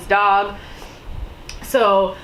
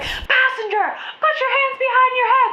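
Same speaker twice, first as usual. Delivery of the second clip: high, fast police command; barking cop order. Retold or imitated. Retelling the police order to the passenger, commanding. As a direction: bark it like a cop at a traffic stop. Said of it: "they're like".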